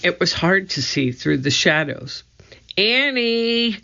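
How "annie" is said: shout. A narrator's reading. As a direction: yell into the dark woods. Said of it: "Jack shouted".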